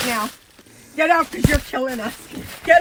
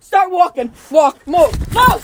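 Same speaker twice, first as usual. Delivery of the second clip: shaking with anger; 2 semitones higher, 7 dB louder than usual. Real, not acted. Ordering him out of the house.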